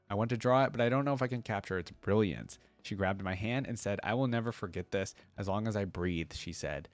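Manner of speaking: steady storybook reading voice; story narration. Acted. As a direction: read the diary like a tender confession. Reads lore diary aloud.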